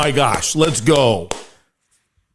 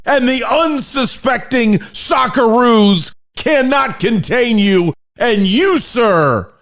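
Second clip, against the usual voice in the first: excited toast; 4 semitones higher, slower than usual. Acted. Toast and mock play-by-play.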